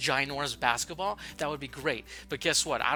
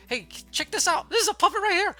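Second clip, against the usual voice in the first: excited showoff; 8 dB louder than usual. Acted. Showing off puppets excitedly.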